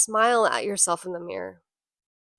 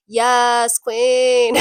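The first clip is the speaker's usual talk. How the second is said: cheering scream; 6 dB louder than usual. Retold or imitated. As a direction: scream it like a hyped friend. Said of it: "the person that's gonna scream".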